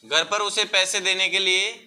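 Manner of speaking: measured phrases with long pauses for copying; classroom dictation. Real, not acted. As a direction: dictate the answer piece by piece.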